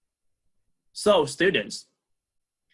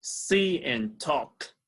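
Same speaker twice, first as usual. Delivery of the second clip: slow model phrase; much slower than usual. Shown as a demonstration. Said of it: "the synonym is".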